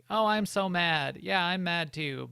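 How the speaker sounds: slow, lukewarm fake fury; deliberately half-hearted anger; tepid mock anger. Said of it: "it was like".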